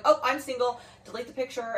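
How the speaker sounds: mock him as a sulky poor victim; mock self-pity. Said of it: "first thing you do in the morning is like".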